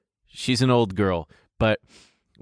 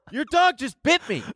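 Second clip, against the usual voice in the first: high-pitched mock outrage; shocked, high retold protest; imitated shocked complaint; 13 semitones higher than usual. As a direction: play the bitten man, voice shooting up. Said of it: "he turns around and goes".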